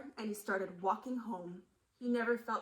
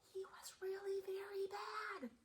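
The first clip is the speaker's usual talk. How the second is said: whispered sad line; 9 semitones higher, 7 dB quieter than usual. A narrator's reading.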